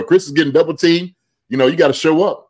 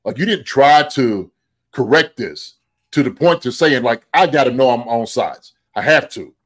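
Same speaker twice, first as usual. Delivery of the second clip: exasperated disbelief. Retold or imitated. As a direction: throw up your hands at the TV. Retelling own frustrated reaction.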